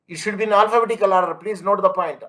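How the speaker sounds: emphatic rule. Real, not acted. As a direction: hammer the rule home quickly. Teacher drives home the rule.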